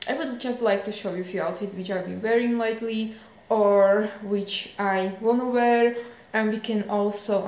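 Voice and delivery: chewing gum while talking; mouth full. Real, not acted. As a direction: talk around a piece of gum. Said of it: "I have a chewing gum in, in my mouth".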